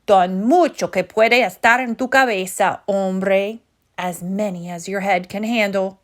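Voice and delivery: put-on Spanish-accented chihuahua answer; a light Spanish accent, mock proud; playful Spanish accent. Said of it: "using his very best Spanish accent".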